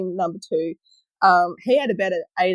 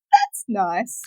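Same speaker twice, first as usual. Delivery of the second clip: mimics the colleague's dull "That's nice."; flat, unimpressed. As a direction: say "That's nice." blankly, with no interest. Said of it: "And she goes".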